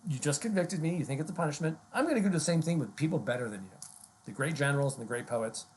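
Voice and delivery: lightly mocking defiance to the jury; mocking Socrates. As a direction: Socrates taunting the jury, a touch smug. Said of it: "Is this mocking?".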